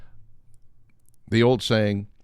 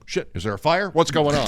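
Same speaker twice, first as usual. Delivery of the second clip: higher and louder, suddenly alarmed; startled alarm; 7 semitones higher, 4 dB louder than usual. Retold or imitated. Host retelling the bar lights coming on, alarmed. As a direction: jolt up as if the alarm just went off. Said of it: "and I was like".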